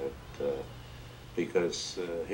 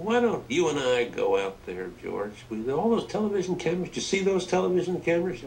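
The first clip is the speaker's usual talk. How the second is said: excited Johnson impression; 10 semitones higher, 3 dB louder, faster than usual. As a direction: act Johnson pushing hard and fast. Johnson voiced pressing Wallace.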